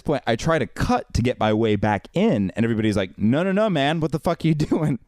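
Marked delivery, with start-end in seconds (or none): 3.2-5.0 indignant crowd. Retold or imitated. Crowd objects to line cutting.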